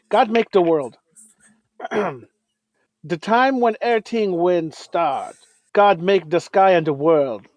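solemn scripture reading. Shown as a demonstration. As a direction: read it like a sermon. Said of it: "just bow your heads and listen".

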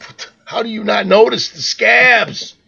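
high-pitched mock outrage; exasperated wife. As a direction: imitate a wife scolding her oblivious husband. Retells wife's exasperated scolding.

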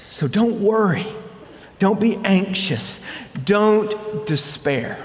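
gentle, slowing comfort; reassuring. Acted. Preacher voicing Jesus to his worried followers, gentle reassurance. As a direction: soothe an anxious flock.

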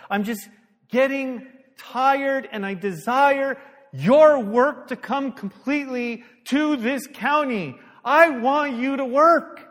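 slow, high, loud cry to God; worked-up plea. Retold or imitated. Pastor retelling his prayer for the county, worked-up pleading. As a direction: plead with mounting force. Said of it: "I'm getting all excited".

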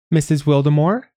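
high-pitched nasal voice, questioning lift; nasal, high calling voice at the door; nasal caller. A narrator's reading. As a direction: call out high through the nose. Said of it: "called a nasal voice".

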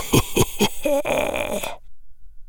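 high unvoiced cackle; a gloating breathless cackle; wheezy cackle. A narrator's reading. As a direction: caretaker cackling at the students. Caretaker laughs at students.

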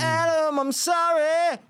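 high, slow laughing sorry; laughing apology. Real, not acted. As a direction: wail the apology through a laugh.

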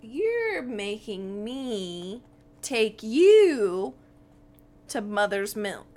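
slow, halting kobold with a loud swell; Meepo recalling. Acted. Kobold recalls where he must lead them, dismayed. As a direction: draw out each phrase in dawning dismay. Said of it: "kind of recalls, he's like".

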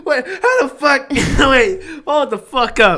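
laughing while pounding the table; shouting and slamming the table; banging the desk. Real, not acted. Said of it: "quit hitting the table".

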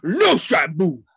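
loud, slow laughing mock scream; retold screaming. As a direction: bellow it at the stranger while laughing. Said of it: "starts screaming".

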